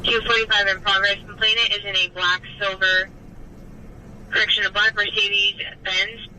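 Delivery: dispatcher over scanner radio; flat radio dispatch read; police radio. Real, not acted. Dispatcher reading call over radio.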